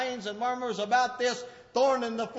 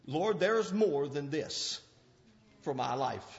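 soft prayer; 13 semitones lower, 9 dB quieter than usual. Acted. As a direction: pray it quietly to the Lord. Voiced prayer, soft and slow.

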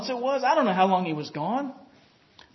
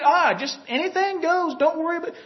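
mocking worldly advice; 5 semitones higher than usual. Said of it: "They teach".

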